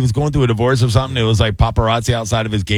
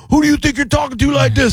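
retold yelling. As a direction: bellow it like an offended scammer. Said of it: "He starts yelling".

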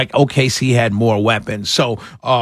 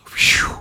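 imitated "phew" of relief; airy, voiceless mock sigh of relief; 4 dB quieter than usual. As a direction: blow out a relieved breath, acted. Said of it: "And he goes".

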